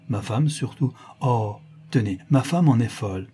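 lightly voiced gushing, pleading gentleman; enthusiastic marquis. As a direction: plead warmly, praising with lively emphasis. (marquis enthousiaste, légèrement joué)

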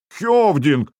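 high-pitched indignant cry, as narrated; возмущённый вопль. A narrator's reading. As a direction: cry out in protest for a whole crew. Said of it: "раздался дружный возмущённый вопль". (возмущённый вопль)

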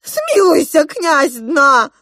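high, loud desperate plea; king pleading for his life; crying for mercy. A narrator's reading. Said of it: "закричал он".

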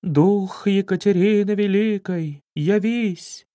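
могильный голос. Acted. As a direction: call the spirit like a graveyard medium. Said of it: "За могильным голосом протянула". (замогильный протяжный голос медиума)

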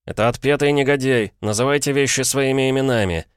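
высокий, напористый голос негодования; возмущённо обличать, повысив голос; возмущённое восклицание. A narrator's reading. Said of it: "вскричал Пол". (возмущённо)

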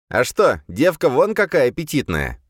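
loud leering demon voice; fire demon. A narrator's reading. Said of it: "голос демона".

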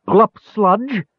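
high, furious gully dwarf shriek; angry scream. A narrator's reading. Gully dwarf Bupu turns on the Draconian with an angry scream. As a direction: screech it in rage. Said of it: "Bupu screamed in anger".

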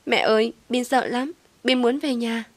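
put-on a frightened small boy wanting his mum; scared child. A narrator's reading. Kidnapped child begs for home.

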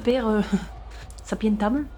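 put-on Latin read in a German accent. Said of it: "comme si c'était de l'allemand".

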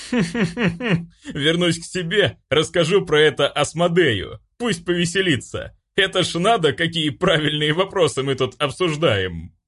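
giggly demon. Acted. Demon laughing, voiced high.

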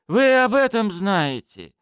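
slow, high astonished question; the thief startled by what the police know; surprised. Acted. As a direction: caught off guard. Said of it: "удивился князёк".

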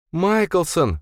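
high cry, voice trembling with strain; shaking with effort. Acted. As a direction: call his name, straining. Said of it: "дрожащим от напряжения голосом".

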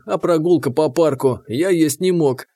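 usual speaking voice

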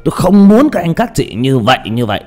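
lightly voiced old man, holding forth; a hint of a stubborn old man laying down his view; mild old codger lecturing. Shown as a demonstration. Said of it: "đó là cái giọng của ông già".

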